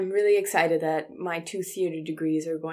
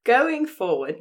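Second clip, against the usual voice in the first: South African attempt slipping into British; higher, louder, British-sounding stab at South African; failed South African accent; 5 semitones higher, 5 dB louder, slower than usual. Co-host demands a South African accent, attempt comes out British. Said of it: "No, it's British".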